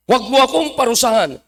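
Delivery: brisk preacher's rendering of the devil's entreaty; devil's plea, repeated. Acted. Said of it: "Anong pakiusap ng diablo?".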